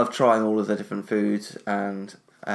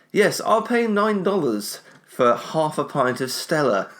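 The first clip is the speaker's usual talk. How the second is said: slow, higher-pitched mock order; stretched-out sarcastic enthusiasm; mock eager customer; 5 semitones higher, slower than usual. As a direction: play an over-keen tourist ordering, drawn out. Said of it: "be like".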